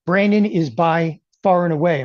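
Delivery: choking while talking. Real, not acted. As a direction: voice catching, about to cough. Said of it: "as I'm choking over here".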